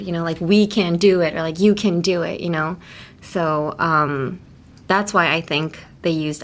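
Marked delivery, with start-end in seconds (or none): 0.4-1.3 "We can do it", each word stressed separately; every word stressed. Shown as a demonstration. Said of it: "emphasize every word". 1.6-2.4 "You can do it", each word stressed separately; every word stressed. Shown as a demonstration. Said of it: "emphasize every word".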